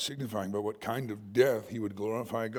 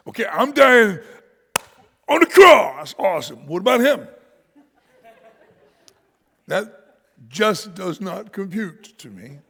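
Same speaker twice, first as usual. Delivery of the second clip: loud, high, laughing disbelief; preacher laughing at Peter's odd question; laughing mock outrage; 8 semitones higher, 13 dB louder than usual. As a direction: laugh while mocking the question.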